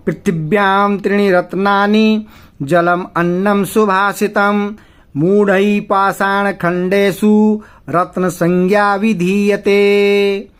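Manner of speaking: slow, lifted Sanskrit verse chant; shloka recitation. Shown as a demonstration. Teacher reciting the whole verse to students, slow chant. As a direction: intone the verse, drawing out the last word.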